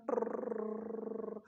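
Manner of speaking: slow rolled-r trill like a swinging bob; pendulum whirr. Retold or imitated. Teacher imitating a conical pendulum for students, rolled trill. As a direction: roll the r long to sound the spinning pendulum.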